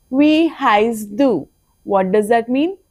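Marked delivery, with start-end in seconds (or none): 0.1-1.5 even slower, stress on wie; slower repeat. Shown as a demonstration. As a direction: drag it out so they can copy.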